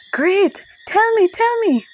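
put-on high, loud eager little-girl chime. Babsy begging Ava to explain, high eager chiming. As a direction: bounce on tell me, tell me. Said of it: "Babsy chimed".

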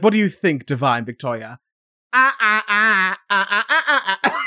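stuttering robot impression; jerky broken animatronic voice; robotic voice. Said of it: "the most robotic voice".

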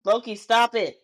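sharp real reprimand to a misbehaving pet; firm scolding. Real, not acted. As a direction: snap at the dog to stop, for real. Scolding her pet mid-recording.

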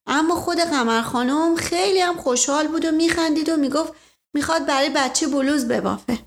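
a hint of gossipy maid; lightly voiced gossiping maid. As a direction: confide it as a chatty servant, lightly acted.

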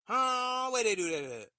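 loud, incredulous "where they do that at?"; disbelieving shout. Real, not acted. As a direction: call out the absurdity loudly.

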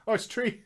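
imitating "tree" for "three"; mimicked "tree" with a hard T. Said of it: "You can't say three".

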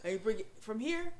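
loud, slowing into a shouted "the hell down"; mock drama teacher bellowing the end; Tansy's direction. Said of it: "What she say, Tansy?".

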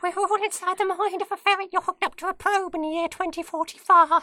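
very high squeaky ferret voice. Pretend. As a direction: squeak back like a ferret student. Ferret student role play.

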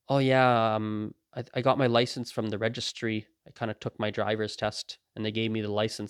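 understated, matter-of-fact answer; serious, unruffled. Retold or imitated. Driver calmly answering a man who cussed them out, unruffled. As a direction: answer sincerely, as if nothing is wrong. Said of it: "you answer it as if it's a serious question".

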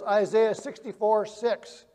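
slowed down so they can write it; slow dictation. Shown as a demonstration. Preacher dictating a verse reference to the congregation, slowly. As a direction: spell the reference out slowly for note-takers. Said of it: "write down this verse".

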